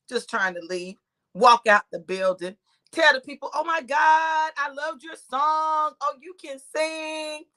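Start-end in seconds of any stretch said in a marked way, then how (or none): 3.5-7.4 drawn-out fan gushing; mock gushing compliments. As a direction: gush slowly, stretching the praise. Gushing to performers, retold.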